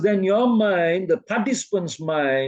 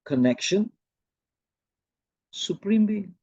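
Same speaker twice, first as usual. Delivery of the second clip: imitating Shivani Ben; 2 semitones higher, 4 dB quieter than usual. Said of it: "And then she'll say".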